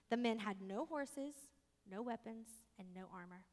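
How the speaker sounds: storybook reading voice; story narration. A narrator's reading. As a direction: read it like a bedtime tale. Reads story aloud to congregation.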